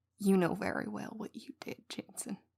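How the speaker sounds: scary, threatening, menacing whisper. Co-host answering Jensen, who asks what he did wrong: scary voice. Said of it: "That's a scary voice you're using on me right now".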